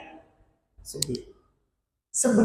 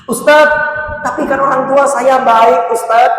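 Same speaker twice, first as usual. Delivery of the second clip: jamaah yang protes; 4 semitones higher, 6 dB louder than usual. Retold or imitated.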